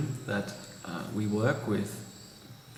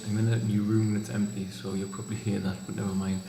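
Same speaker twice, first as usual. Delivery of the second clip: echoing voice; 3 semitones lower than usual. Real, not acted. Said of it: "sorry for the echoing voice".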